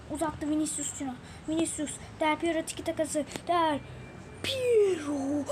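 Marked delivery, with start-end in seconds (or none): 3.5-5.4 heyecanlı bağırış. Real, not acted. Gol anında heyecanlı bağırış.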